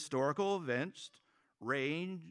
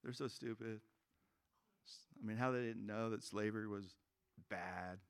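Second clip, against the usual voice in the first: softer, smug mock voice; smug hindsight; 3 semitones lower, 5 dB quieter than usual. History-class student judging the past, softer smug voice. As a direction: sneer at history from above. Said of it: "It's like".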